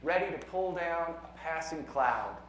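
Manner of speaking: measured poem reading with deliberate pauses; poetry reading. Acted. Poet reads a science poem to a conference audience, measured poetry reading. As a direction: read it as verse, letting each numbered line land.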